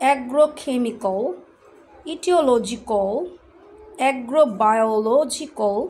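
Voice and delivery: "biological" drawn out, ending on a rounded "o"; slow careful drill, the final al said like "o"; homework word drill. Shown as a demonstration. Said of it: "আমার homework সেটা আমি বলছি".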